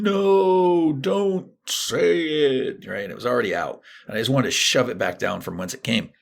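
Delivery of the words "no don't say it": inner voice yelling. Retold or imitated. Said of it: "another part of me watching that was going".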